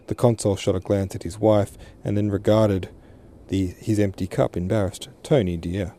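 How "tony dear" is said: gentle. Acted. Mother calming her tearful daughter, gently. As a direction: soothe her daughter by name. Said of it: "said the Frau Consul gently".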